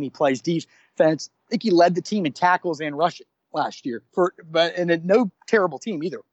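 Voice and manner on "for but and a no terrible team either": talking through hiccups; hiccuping between words. Real, not acted. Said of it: "I got the hiccups here".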